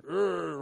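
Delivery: deep mock caveman grunt. Woman doing a man's caveman grunt. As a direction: grunt it like a caricatured man. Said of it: "your voice gets deep".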